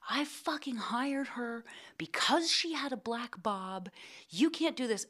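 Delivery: whispered, slow boss outrage; mock hushed fury. Producer whispering outrage about the hair. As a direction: hiss it like a furious producer trying not to be overheard.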